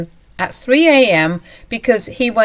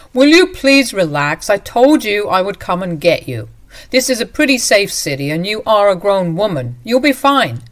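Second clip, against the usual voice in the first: louder, telling her to calm down; condescending; 2 semitones higher, 5 dB louder than usual. Acted. Husband telling wife to relax, louder and condescending. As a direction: talk down to her.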